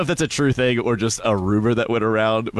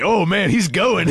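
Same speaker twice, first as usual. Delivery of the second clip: excited online voice; 7 semitones higher, slower than usual. Retold or imitated. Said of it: "it's like".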